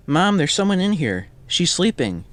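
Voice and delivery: put-on high-pitched boy calling to his mom; little boy. A narrator's reading. Boy tells his mom about the sleeper in the car, high boy voice. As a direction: pipe up high like a small boy. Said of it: "the boy says".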